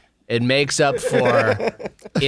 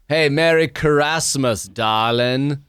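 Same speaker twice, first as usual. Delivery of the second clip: slow deadpan line; 2 semitones lower, slower than usual. Shown as a demonstration. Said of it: "Let me do it again".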